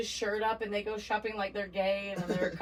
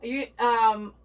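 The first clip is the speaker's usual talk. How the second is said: nosy gossip lady; 3 semitones higher, 4 dB louder than usual. Retold or imitated. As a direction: play a hint of a busybody neighbor spilling secrets. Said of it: "a lady that used to get in the window".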